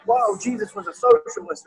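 lightly hammed-up surprise breaking into a laugh; mock astonishment. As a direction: react in playful disbelief, voice lifted. Acting out a surprised reader's reaction.

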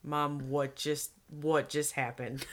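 low, slow, hushed mock shock; stunned child. Daughter to mom in the bathroom, stunned hush. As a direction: imitate a quietly horrified kid.

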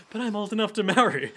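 put-on lifted girlish pitch. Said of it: "that's what she says".

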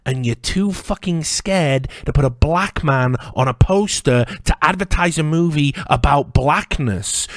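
ordinary talk

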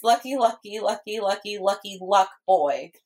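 put-on quick, even run of "lucky" ending on "boy"; corrective quote. Shown as a demonstration. Friend corrects the misquote, brisk even run. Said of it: "Get it right".

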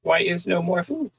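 high, broken-English cat. Pretend. Voicing the cat, a high whine about the empty bowl. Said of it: "voicing the cat".

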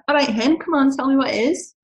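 put-on high-pitched, lilting Scottish accent. Friend coaxing her to share an idea, Scottish accent. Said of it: "Hopefully that's a good Scottish accent".

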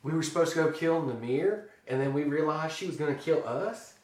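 mock recounting. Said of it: "He's like".

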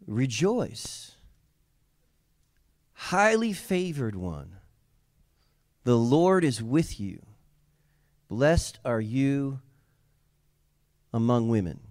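slow scripture reading with pauses; solemn, measured angelic greeting; angel's greeting. Acted. Preacher reading the angel's greeting to Mary, slow and measured. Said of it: "the angel said to her".

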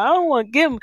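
hammed-up sob, pleading; snotty crying. Shown as a demonstration. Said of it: "That's my ugly cry".

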